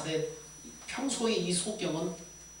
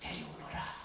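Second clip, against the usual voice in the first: low, hushed command; quiet, deep voice of authority; Jesus; 9 semitones lower, 4 dB quieter than usual. Retold or imitated. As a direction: give the order low and measured. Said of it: "제자들에게 명하셨어요".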